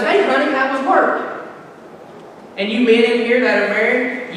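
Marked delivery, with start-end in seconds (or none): 0.0-1.2 lightly voiced sweet wife, a bit higher; sugary wife asking about his day; wife greeting her husband home from work, lightly sweet. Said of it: "his wife goes".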